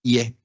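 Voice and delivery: IE rising from 'i' into 'e'; Creole diphthong. Shown as a demonstration. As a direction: say IE as one 'yeh' glide. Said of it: "todas esas en criollo sistemáticamente".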